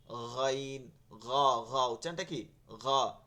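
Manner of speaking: "গাইন" and "গ" thick, with a soft throat g; thick, soft articulation. Shown as a demonstration. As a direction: say "গাইন", "গ" heavy but not hard. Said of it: "মোটা করে করতে হবে, নরম আওয়াজে".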